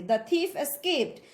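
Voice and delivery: The said as duh before thief; slow model sentence with a reduced The; weak "the". Shown as a demonstration. Teacher reading an example for students, weak "the". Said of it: "उसको हम द बोलेंगे".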